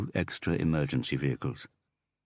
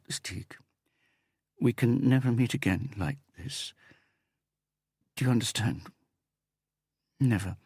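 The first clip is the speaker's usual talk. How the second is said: put-on upset young woman; 3 semitones higher than usual. A narrator's reading. Woman's pleading dialogue.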